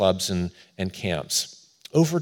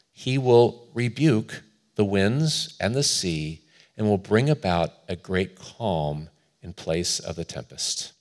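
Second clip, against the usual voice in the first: emphatic quotation that softens at the close; slow quote reading. Real, not acted. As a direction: read slowly, phrase by phrase, easing into calm. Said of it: "try to read it slowly".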